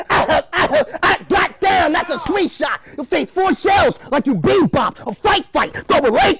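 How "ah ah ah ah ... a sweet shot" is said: A rapper's groan. Acted. Battle rapper imitating a rapper's pained cry. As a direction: ham up the punched rapper's cry. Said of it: "He'll sound like a rapper".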